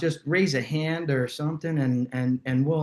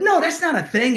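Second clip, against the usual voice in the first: retold answer; 12 semitones higher, 3 dB louder than usual. Dad retells his answer on phone.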